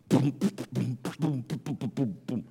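soft beatboxed bass beat; imitated car music. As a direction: mouth a thumping beat, low and quiet.

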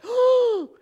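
very high, loud gasping oh; crowd's stunned exclamation; amazed oh. Retold or imitated. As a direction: cry out in astonishment. Onlookers gasp in amazement.

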